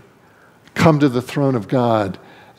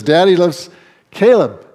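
retold holler; 5 semitones higher than usual. Father calling across the room to his son, fond playful holler. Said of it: "he hollered across the room".

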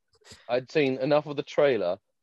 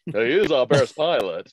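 slow, smooth standard American read, a bit louder; 5 dB louder, slower than usual. Retold or imitated. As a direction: say it like a bland smooth American voice actor. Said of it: "they just did with standard smooth American".

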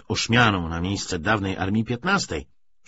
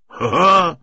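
loud, high acted cackle; rowdy narrated he-he; carefree laughter; 8 semitones higher, 8 dB louder than usual. A narrator's reading. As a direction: burst out at the joke. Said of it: "śmiali się z byle czego".

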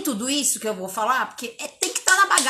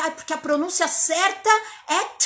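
mock fussy teacher; 5 semitones higher than usual. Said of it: "professor xiita".

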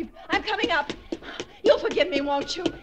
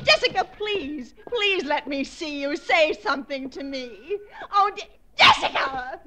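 slow desperate pleading; 4 semitones lower, slower than usual. Acted.

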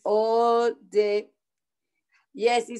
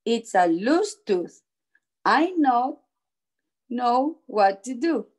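measured read-aloud with stressed key words; storybook narration. A narrator's reading. Teacher reading a picture book to children, storybook narration. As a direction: read it out carefully to young children.

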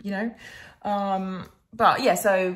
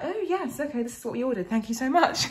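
awkward politeness; 5 semitones higher, 4 dB quieter than usual. Retold or imitated.

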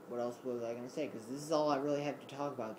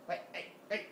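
hushed coaxing; 6 semitones higher, 4 dB quieter, faster than usual. Real, not acted. Softly coaxing the cat.

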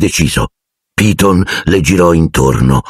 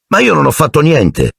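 surprised protest; 8 semitones higher than usual. A narrator's reading. Pupil protests undeserved points.

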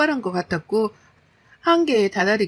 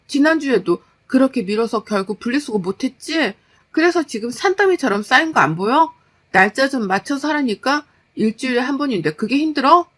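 higher, heated scolding; scolding wife; 3 semitones higher, 4 dB louder than usual. Acted. Wife scolding husband for putting off the recycling, exasperated. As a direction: list his failings in exasperation.

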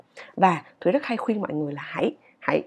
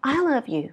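"I" raised above the falling rest; stress on I; 5 semitones higher than usual. Shown as a demonstration. Teacher contrasting intonations for learners, stress on I. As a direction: lift "I" higher than the other words. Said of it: "cái tông nó cao hơn so với những cái còn lại".

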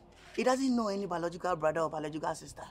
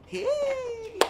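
sudden high call to grab her attention. Acted. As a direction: shout her name across the way to stop her. Calling out to a woman.

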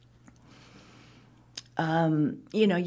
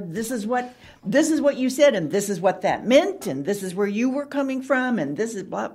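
mock accusing; 3 semitones higher, 4 dB louder than usual. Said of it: "loaded for bear".

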